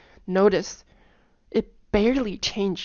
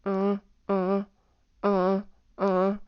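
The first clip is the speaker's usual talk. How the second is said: hummed tones; slower than usual. Shown as a demonstration. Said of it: "hum it".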